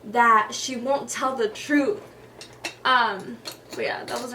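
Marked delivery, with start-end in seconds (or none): 0.0-2.0 raised voice, the last words slowed and pressed; angry protest. Retold or imitated. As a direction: push back at dad, upset and loud. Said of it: "And I'm like".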